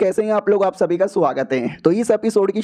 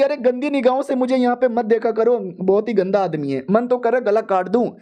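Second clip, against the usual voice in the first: higher, disgusted scolding; mock angry wife; 4 semitones higher than usual. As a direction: scold the creep, pitched high.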